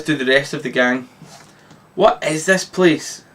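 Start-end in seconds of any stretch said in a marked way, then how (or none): 1.9-3.2 1 very polite. Acted. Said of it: "asks Daphne very politely".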